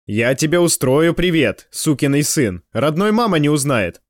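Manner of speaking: slow, gloating promise of a beating; satisfied threat. Acted. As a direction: relish the threat, slowly. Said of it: "удовлетворённо пообещал он".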